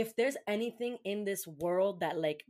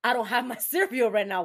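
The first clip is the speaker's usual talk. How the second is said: upset; 4 semitones higher, 10 dB louder than usual. Retold or imitated. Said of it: "I'm upset".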